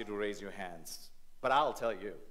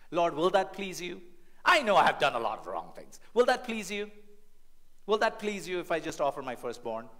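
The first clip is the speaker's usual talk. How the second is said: sarcastic pleading; 4 semitones higher, 5 dB louder than usual. Acted. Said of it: "This is like hitting really low".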